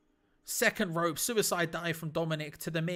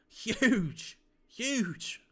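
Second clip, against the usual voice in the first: excited shout; 5 semitones higher, 4 dB louder than usual. Real, not acted. Big move lands.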